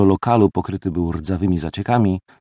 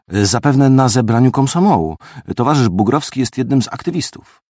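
faint sarcasm; 4 semitones higher than usual. Acted. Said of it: "dodał z lekkim, niemal niedostrzegalnym sarkazmem".

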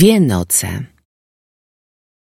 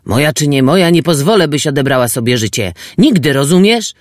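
angry; 3 semitones higher than usual. Acted. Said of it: "Szarpał nią ze złości".

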